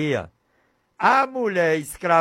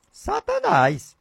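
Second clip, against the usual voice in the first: exclaimed name; slower than usual. Acted. Preacher naming the devil.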